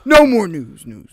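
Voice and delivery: hoarse, high and loud; sick voice. Pretend. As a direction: croak it like you're sick. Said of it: "That's my sick voice".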